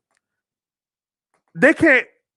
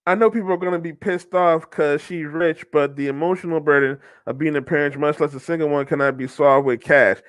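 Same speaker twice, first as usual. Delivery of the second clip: lower, even reading voice; comment read-aloud; 6 semitones lower than usual. Acted. Host reads out a sympathetic comment on divorce, comment read-aloud.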